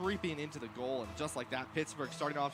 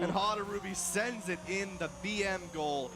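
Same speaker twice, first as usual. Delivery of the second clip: excited; 3 semitones higher, 4 dB louder than usual. Real, not acted. Calling a goal live.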